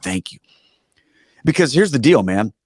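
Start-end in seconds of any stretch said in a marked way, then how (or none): 0.0-0.4 soft thanks. Retold or imitated. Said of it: "She's like".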